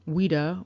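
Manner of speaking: Ouida said "WEE-duh"; English pronunciation. Shown as a demonstration. Lecturer showing how the English said the name, Ouida as "WEE-duh". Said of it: "the English pronounced it".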